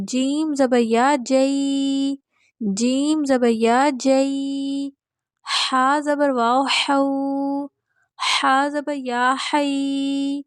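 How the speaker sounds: slow, measured spelling chant with the syllables drawn out; patient teacher reciting spelling drills; Qaida drill recitation. Acted. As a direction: recite each letter and syllable steadily for students to repeat.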